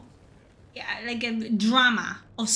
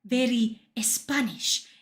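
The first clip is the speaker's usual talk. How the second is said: mock Spanish accent; slower than usual. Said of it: "talking like this".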